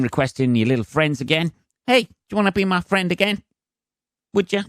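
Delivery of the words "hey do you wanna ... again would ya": much higher, fast and wheedling; mock needy plea. Re-adding lost friends, a high mock wheedle. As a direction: beg like a lonely kid.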